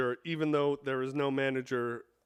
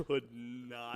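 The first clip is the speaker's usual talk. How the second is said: 1 laughing; 14 dB louder than usual. Real, not acted. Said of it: "What are you laughing about?".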